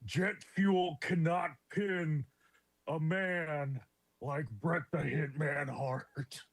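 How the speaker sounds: poor wrestler impression, broken into short phrases; a hammy, halting celebrity impression; Jesse the Body. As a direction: put on a jokey wrestling commentator voice, pausing mid-sentence. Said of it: "Doing my very poor Jesse the Body".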